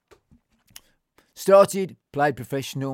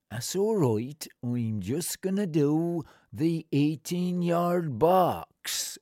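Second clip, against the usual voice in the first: put-on slow old groundsman; 3 semitones higher, much slower than usual.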